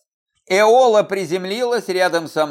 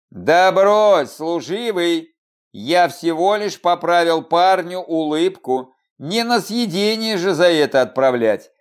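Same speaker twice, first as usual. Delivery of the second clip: mocking. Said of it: "Не без насмешки высказал громаде".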